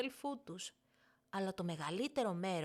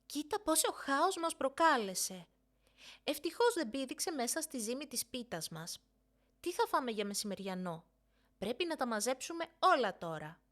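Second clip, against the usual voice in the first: higher, louder mock scolding; feigned annoyance; 4 semitones higher, 3 dB louder than usual. Older sister bossing the little one with pretend displeasure. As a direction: play the put-upon big sister. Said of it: "προσποιούμενη δυσαρέσκεια".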